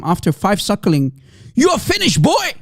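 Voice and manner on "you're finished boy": high, mocking taunt; mock Hijab taunt. Mocking the debater, a high sneering taunt. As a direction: sneer it like a bully. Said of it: "he said to him".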